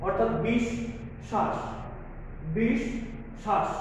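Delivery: বিষ and শ্বাস said apart, doubling the শ; split syllables. Shown as a demonstration. Teacher showing students the doubled sound in বিশ্বাস. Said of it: "বিশ্বাস".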